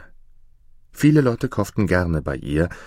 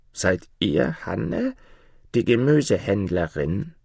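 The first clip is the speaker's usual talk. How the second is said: put-on croaking old hag. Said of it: "mit krächzender Stimme".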